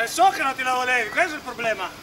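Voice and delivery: loud, accusing teasing; accusatory loud. Real, not acted. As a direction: hammer the accusation home. Rinfaccia all'amico il colpo fortunato. (tono accusatorio ad alta voce)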